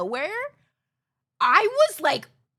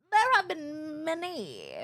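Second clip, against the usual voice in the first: mock sob; 6 semitones higher, slower than usual. Mock sobbing over past haircut mishaps. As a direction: fake weeping, higher and slowed. Mock crying repeat of line.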